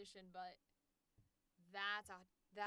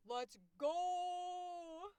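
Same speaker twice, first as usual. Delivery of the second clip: high, drawn-out hype yell; excited cheer; 9 semitones higher, 7 dB louder than usual. Real, not acted. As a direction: celebrate with a long loud go. Cheering LGBT cast news.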